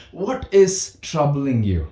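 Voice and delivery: caring parent asking gently; gentle what question. Shown as a demonstration. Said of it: "learn to ask the what question".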